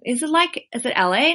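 lightly tried Los Angeles accent; L.A. accent attempt. Shown as a demonstration. Podcast host guessing at an American accent, tentative L.A. accent. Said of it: "What accent is that".

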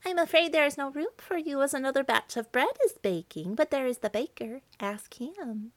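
a lightly voiced oven, high and regretful; mild talking-oven voice; apologetic oven. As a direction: turn her away kindly and point to the baker. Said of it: "Then the oven said".

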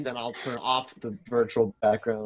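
robotic broken-up sound; glitchy, low-quality connection; choppy audio. Real, not acted. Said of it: "said that in the worst audio quality".

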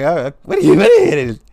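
high, loud mock coo; high sarcastic baby voice; mocking her baby talk. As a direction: parrot her cooing back mockingly. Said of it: "I'm like".

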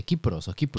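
Kipros and Kiprus with hard k, trying both endings; Japanese name pronunciation. Shown as a demonstration. Host searching for the Japanese name of Cyprus, Kipros with hard k. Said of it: "¿cómo se dice?".

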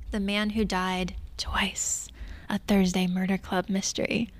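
a hint of a whispered trailer narrator; movie trailer voice. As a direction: announce the title like a hushed movie trailer. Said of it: "That's my movie trailer voice".

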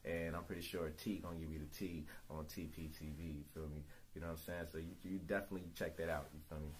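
fast promo shout-outs; hype man plug. Acted. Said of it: "Can I hire you as my hype man every day?".

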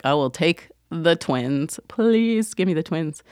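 slow, drawn-out plea, rising on please; half-joking begging, stretched out; mock pleading. Patient bargaining for twins over worse news, mock pleading. Retold plea for the better outcome.

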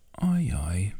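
soft whispered ajaj; whispered sigh. Acted. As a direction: breathe it out in a whisper. (suttogott sóhaj)

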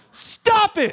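loud, high comic outburst; abrupt shout. Acted. Counselor repeats advice to startled client, abrupt shout. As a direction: yell it as one sudden burst.

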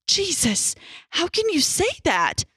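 indignant loud reply; loud retort. A narrator's reading. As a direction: snap back at him in outrage. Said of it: "Doctor Jenkins retorted loudly".

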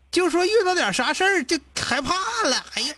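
genuinely exasperated, high at first, then settling; real exasperation. Real, not acted. Host venting at callers who get scared over small things, exasperated. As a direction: vent real annoyance in disbelief. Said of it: "我特别生气在哪儿呢".

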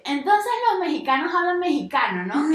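lightly voiced naive question; clueless friend. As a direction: imitate someone naively working it out. Mimics friend's absurd deduction.

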